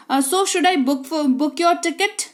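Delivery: very slow, spelled-out English for practice; slow model sentence. Shown as a demonstration. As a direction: lay out every word slowly. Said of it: "teacher models the English line". (धीमी गति में अभ्यास वाक्य)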